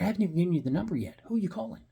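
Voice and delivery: fast, rising to a high indignant demand; exasperated retort. Retold or imitated. Narrator snapping back at the cop over the phone call, fast and indignant. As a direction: rattle it off fast, then spike up on the question.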